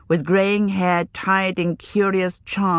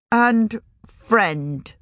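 angry; 4 semitones higher than usual. Acted. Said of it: "heard the anger in her voice".

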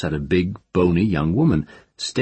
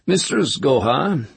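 polite, slow formal address; courteous official greeting; civil voice; 9 semitones higher, slower than usual. A narrator's reading. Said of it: "said a civil voice".

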